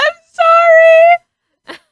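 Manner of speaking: high, loud laughing sorry; laughing apology. Real, not acted. Laughing apology after outburst.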